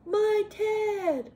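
high, urgent storybook gasp; startled, high-pitched bear exclamation. A narrator's reading. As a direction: cry out in shocked recognition. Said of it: "gasped the big bear".

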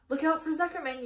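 high, loud warning yell; yelling gander. A narrator's reading. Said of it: "yelled the gander".

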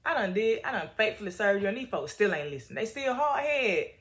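a lightly voiced weary prophet, pitch climbing as he complains; fed-up servant griping to his boss, half-joking; exasperated Elijah. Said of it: "Elijah like".

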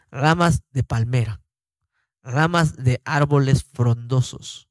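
measured, deliberate Bible reading with pauses between phrases; scripture reading. Acted. Teacher reading Leviticus to his listeners, measured scripture reading. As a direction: read the verse out solemnly phrase by phrase. Lee el versículo en voz alta.

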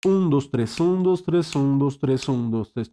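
"un, dos, tres" in an even, unbroken loop; triplet counting. Shown as a demonstration. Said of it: "si quisieras hacerlo con números, es como hacer".

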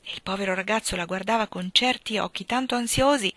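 ordinary delivery

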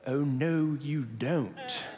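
Sarah scolding. Retold or imitated. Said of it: "Sarah says".

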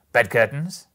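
loud, rising disbelief; surprised question. Acted. Joe questions what the bundle holds, surprised. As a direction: ask it sharply, lifting at the end.

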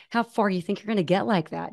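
lightly mocking snotty question. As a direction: imitate a snide, doubting stranger. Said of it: "Just really snotty".

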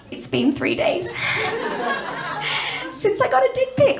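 high, giggling confession; barely holding the line together, laughing; mock support-group share cracking up; laughing through it.

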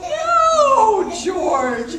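high, loud no from the mother; mock scolding mommy. Mother scolding George for wrong sound, high and loud. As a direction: playfully scold the puppy. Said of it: "said his mommy".

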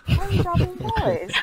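high-pitched title reading with a falling end; squeaky-high overdone reading of the title; exaggerated inflection. Shown as a demonstration. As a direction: pitch it way up, then drop on BOYS. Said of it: "Where's the inflection?".

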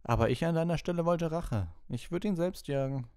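high, taunting schoolboy sneer; sneering Malfoy. Acted. Malfoy goading Harry about revenge, sneering. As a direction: goad him with a sly sneer.

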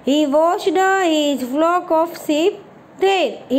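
deliberate word-by-word reading; slow model reading. Shown as a demonstration. Teacher reading the English story line to pupils, very slow. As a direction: read each English word very slowly and clearly. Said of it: "reads English line slowly".

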